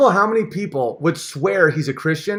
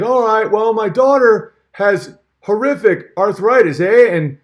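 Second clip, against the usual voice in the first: lightly lampoon Peterson's earnest tone, eh; Peterson impression; 3 semitones higher, 4 dB louder than usual. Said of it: "Peterson's like".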